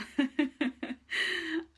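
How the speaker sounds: a short high laugh through tears; tearful laugh. Real, not acted. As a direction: laugh it off, a little overwhelmed. After admitting emotion.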